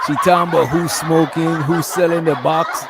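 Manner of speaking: words bubbling through real laughter; laughing while talking. Real, not acted. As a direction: chuckle through the line, amused disbelief. Streamer laughing at snitching clip.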